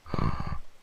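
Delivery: soft gasp; quiet intake of breath. Real, not acted. Reacting to the many foods.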